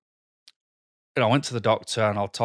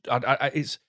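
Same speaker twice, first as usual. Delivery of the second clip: frustrated stutter; 3 semitones higher than usual. Real, not acted. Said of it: "I'm stuttering now 'cause I'm getting frustrated".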